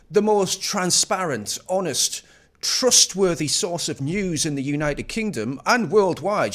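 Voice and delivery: mock praise. Sarcastic praise of BBC.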